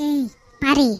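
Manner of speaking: loud threatening call; angry shout. Acted. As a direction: bark her name in fury.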